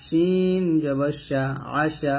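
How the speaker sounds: slow, drawn-out letter names, short syllables after; measured classroom spelling chant; spelling recitation. Shown as a demonstration. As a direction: stretch each letter name, then join the syllables.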